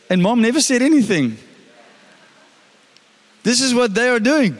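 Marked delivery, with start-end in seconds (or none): 3.4-4.6 unintended hint of an Indian accent; Indian-sounding accent. Real, not acted. Preacher explaining the false teachers, slight Indian-sounding accent. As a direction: slip slightly into an Indian lilt. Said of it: "why I sounded Indian".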